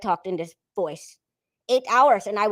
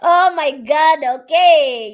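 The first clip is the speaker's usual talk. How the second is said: loud, high, drawn-out reaction; amused outcry at high pitch; loud exclamation; 7 semitones higher, 8 dB louder, much slower than usual. Real, not acted. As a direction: exclaim it, stretching the words. Reacts after laughing at comment.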